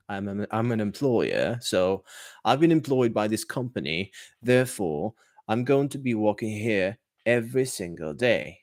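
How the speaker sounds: British English with silent R in working and here; British accent. Shown as a demonstration. Teacher showing students how he sounds employed, British accent. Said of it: "Walking would be British".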